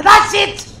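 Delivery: excited realization. Acted. Realizes the answer, exclaims.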